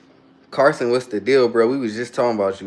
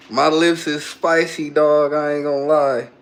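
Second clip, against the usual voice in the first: mouth burning; 3 semitones higher than usual. Real, not acted.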